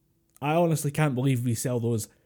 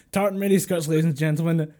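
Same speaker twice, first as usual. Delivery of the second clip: higher-pitched playful announcer flourish; hammed-up emcee announcement; mock showman; 5 semitones higher, 4 dB louder than usual. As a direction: present it like a showman's big reveal. Mock presenting the skirts to listeners.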